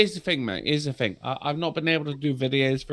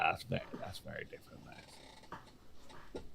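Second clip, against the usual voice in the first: strained, sore-throat voice; hoarse throat; 12 semitones lower, 27 dB quieter, much faster than usual. Real, not acted. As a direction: voice fading to a hoarse rasp. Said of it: "I've had a fucking throat problem".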